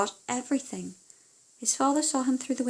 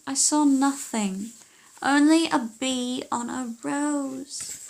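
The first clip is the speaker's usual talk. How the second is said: daughter reporting; 4 semitones higher, 3 dB louder, slower than usual. Acted.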